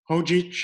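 chodzić said carefully in Polish; Polish word. Shown as a demonstration. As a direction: say chodzić slowly and clearly. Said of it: "is if you're going on foot".

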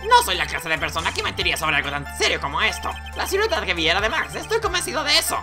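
voz de testigo con saltos al agudo; lightly voiced earnest witness; testigo convencido. Testigo del juego declara, voz fingida. (testigo convencido, con leves gallos)

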